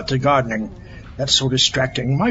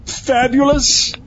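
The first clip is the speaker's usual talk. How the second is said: drawn-out preening; 10 semitones higher, much slower than usual. Acted. Villain preening in lab coat.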